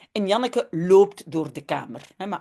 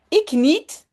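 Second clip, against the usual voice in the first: put-on higher, louder little girl's "Ik niet"; lightly voiced child saying not me; Janneke answering; 6 semitones higher, 3 dB louder than usual. Teacher reading the story, lightly voicing Janneke. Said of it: "zegt Janneke".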